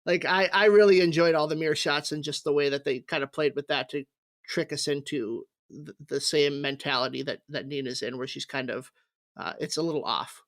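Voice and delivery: talking tipsy, words a bit slurred. Real, not acted. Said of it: "I'm very drunk right now".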